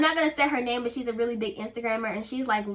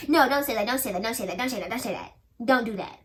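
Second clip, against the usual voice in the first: rattled-off imitation of a defensive coach; faster than usual. Coach refuses to hear the complaint, defensive. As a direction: hurry the objections out in one run. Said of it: "Immediately she got defensive and was like".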